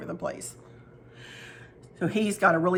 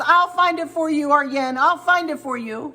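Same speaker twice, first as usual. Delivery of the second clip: higher and louder, a sing-song friendly reassurance; imitating her friend's sweet promise; 6 semitones higher, 4 dB louder than usual. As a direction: play the doting friend promising to find it.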